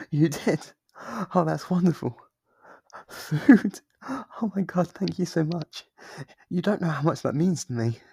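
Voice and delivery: high, loud, thrilled gushing; delighted excitement. Acted. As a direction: squeal with delight at the gift. Visitor brought food.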